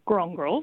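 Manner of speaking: "Grongrol" with "Gron" emphasised; first-syllable stress. Shown as a demonstration. Linguist demonstrating a Noongar word, "Grongrol" stressed on "Gron". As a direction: lean on the opening syllable of "Grongrol". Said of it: "with the emphasis on the first syllable".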